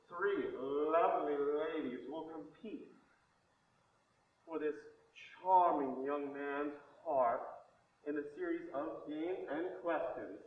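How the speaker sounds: slow, showy host announcement; game show host. Acted. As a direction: present it like a TV dating show host. Game show host introducing contestants.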